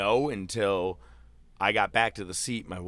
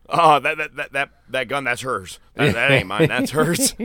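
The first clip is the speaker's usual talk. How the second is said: mock panicky denial; 6 semitones higher, 10 dB louder than usual. Acting out the Maverick scene.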